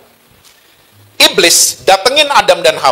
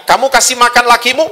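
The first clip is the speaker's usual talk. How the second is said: higher-pitched probing question; questioning Eve; 6 semitones higher than usual. Acted. God questioning Eve about her husband, higher probing voice. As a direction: ask with the pitch lifted. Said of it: "Hawa ditanya".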